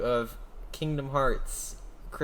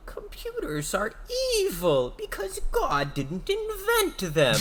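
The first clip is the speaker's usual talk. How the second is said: preachy voice; slower than usual. Pretend. Imagined preachy line.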